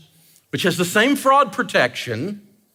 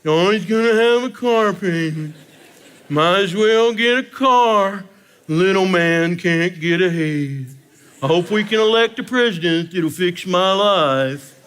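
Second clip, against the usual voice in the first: slow self-pitying whine; whining; slower than usual. Retold or imitated. Comedian imitating debtors who complain, in a mock whine. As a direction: moan it like Eeyore. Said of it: "They always whine".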